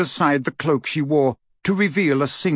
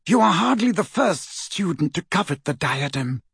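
haughty, higher-pitched disdain; disdainful; 4 semitones higher than usual. Acted. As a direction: dismiss them with mild scorn. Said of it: "she said disdainfully".

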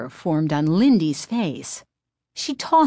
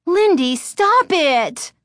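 high, loud pleading cry; 12 semitones higher, 6 dB louder, slower than usual. A narrator's reading. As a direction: yell for her to stop. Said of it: "Chris cried".

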